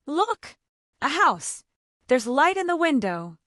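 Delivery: a rooster's high, eager shout of discovery; excited discovery. Acted. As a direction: point it out with sudden delight. Rooster spots a light.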